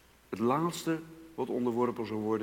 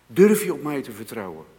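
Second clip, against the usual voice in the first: challenging question; 6 dB louder than usual. Shown as a demonstration. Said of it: "repeated question".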